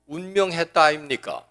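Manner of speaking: Gyeongsang lilt on "운명했다 아닙니까", falling at the end; Gyeongsang dialect. Retold or imitated. Pastor mimicking Gyeongsang folk for the congregation, light dialect. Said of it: "경상도에서는".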